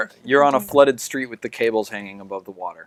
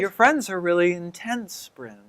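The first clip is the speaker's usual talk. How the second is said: higher, lightly voiced woman; understated, slightly wary aside; disconcerted friend character; 4 semitones higher than usual. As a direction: gently confide in a friend. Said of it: "She's like".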